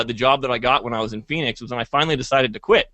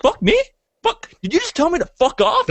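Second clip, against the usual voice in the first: irate boss. Retold or imitated. Boss yelling at the employee who cursed him, high mock fury. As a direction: play the boss exploding in disbelief, pitched way up. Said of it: "just absolutely irate".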